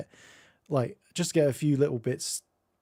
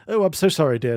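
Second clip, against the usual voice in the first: polite British apology; 3 semitones higher, 6 dB louder than usual. Retold or imitated. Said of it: "the British thing".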